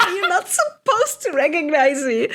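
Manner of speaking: hammed-up menace broken by laughter; mock villain line, laughing. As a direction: heroine turning dark, said with a laugh.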